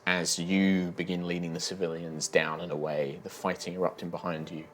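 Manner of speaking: measured, grave storytelling; dramatic scene setting. Acted. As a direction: narrate a grim battle scene. Game master narrates a battle death.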